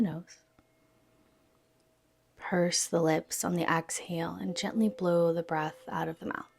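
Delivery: soft, unhurried yoga nidra guidance; guided meditation. Real, not acted. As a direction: gently lead them into stillness, pausing between phrases.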